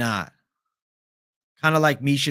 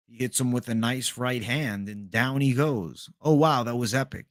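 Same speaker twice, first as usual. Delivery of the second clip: a quieter Rogan call of the knockout; Rogan impression; 3 semitones lower, 4 dB quieter than usual. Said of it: "The Rogan impression".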